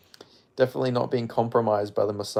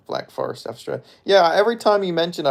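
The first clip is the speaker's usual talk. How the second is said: ordinary delivery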